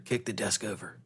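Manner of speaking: soft unvoiced whisper. Robin whispering the order in Superman's ear. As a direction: lean in and whisper it. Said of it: "whispers in his ear".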